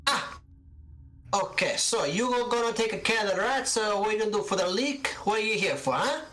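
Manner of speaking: put-on high old Italian shopkeeper, demanding answers; a prickly elderly landlady type firing questions; suspicious old seamstress. Gilda grills landlord's envoys.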